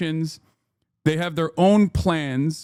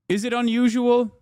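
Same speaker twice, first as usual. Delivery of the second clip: laughing sarcasm; 7 semitones higher than usual. Real, not acted.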